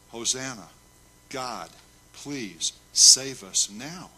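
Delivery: slow plea building to a loud finish; drawn-out cry for rescue; emphatic begging. Shown as a demonstration. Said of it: "It's begging".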